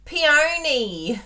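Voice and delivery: peony said PEE-OH-nee in her own Australian way; Australian accent. Shown as a demonstration. Crafter showing viewers her Australian way of saying peony. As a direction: drawl out peony the Aussie way. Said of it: "in my lovely Australian accent".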